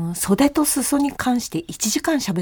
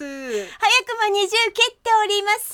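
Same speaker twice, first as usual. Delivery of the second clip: excited; 9 semitones higher than usual. Pretend. Mock stock announcement.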